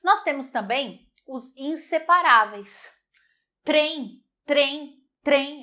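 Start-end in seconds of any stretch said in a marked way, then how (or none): 3.6-5.6 trem repeated with the TR together; clear trem. Shown as a demonstration. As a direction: say trem keeping T and R joined. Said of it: "Eu não consigo separar T".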